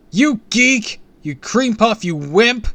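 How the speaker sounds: high, loud taunting yells; shouted insults. A narrator's reading. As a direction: hurl the insults as loud as you can. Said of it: "shouted to the Purple Rage".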